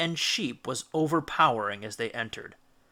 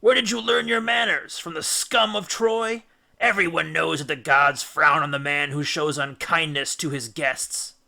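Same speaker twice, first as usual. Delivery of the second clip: indignant rebuke; 4 dB louder than usual. Acted. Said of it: "struggling to keep the terror out".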